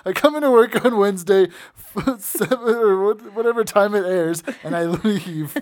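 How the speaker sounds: put-on high, loud gruff old boss; gravelly old tycoon. Imitating Regal, corrected take.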